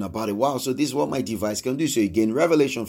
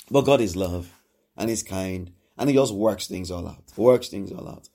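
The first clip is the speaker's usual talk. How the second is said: tender; 6 semitones lower than usual. Real, not acted. Preacher softens speaking of love.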